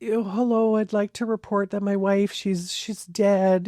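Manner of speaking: lightly mocked fake-sounding caller, slowing on the last words; a hint of hammed-up distress; acty voice. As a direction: imitate a man putting on a show of shock, barely voiced. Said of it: "kind of this kind of acty kind of voice".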